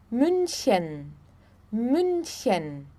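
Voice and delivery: München with a rounded ü, MÜN-chen; German pronunciation. Shown as a demonstration. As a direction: model München softly and clearly. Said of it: "som entre o U e o I".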